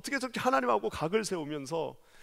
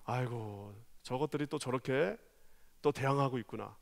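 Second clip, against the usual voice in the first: mocking sigh; 4 semitones lower, 6 dB quieter than usual. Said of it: "비웃고 계시다".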